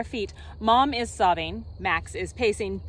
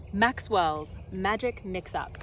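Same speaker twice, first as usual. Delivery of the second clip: dramatic title reading; 3 semitones lower than usual. Shown as a demonstration. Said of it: "I shall read you two books".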